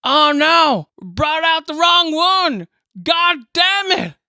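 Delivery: a hint of an annoyed worker; flustered grumble. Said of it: "and he goes".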